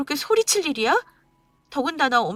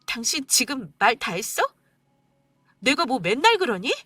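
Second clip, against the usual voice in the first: much higher, near tears, breaking at times; wife tearfully confronting husband on mother's birthday; 6 semitones higher than usual. Acted. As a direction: pour out the hurt, close to crying.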